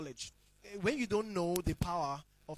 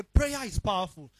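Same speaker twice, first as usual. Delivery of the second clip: believers' claim; 6 dB louder than usual. Retold or imitated. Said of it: "So I say".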